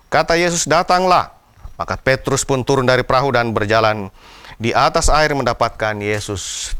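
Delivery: steady, measured reading of the gospel; scripture reading. Acted. Preacher reading the Bible story to the congregation, measured reading voice. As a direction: read the passage to the congregation with care. Reads the gospel passage aloud.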